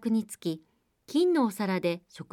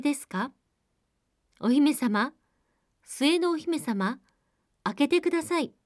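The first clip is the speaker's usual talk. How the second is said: frog calling; 3 semitones higher than usual. Acted. Frog calls at the door.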